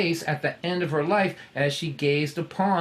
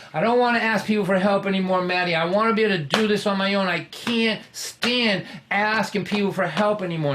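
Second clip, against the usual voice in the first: exasperated complaining; 4 semitones higher than usual. Retold or imitated. Young man complaining to Maddie about borrowing money, exasperated. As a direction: vent like you're fed up with asking.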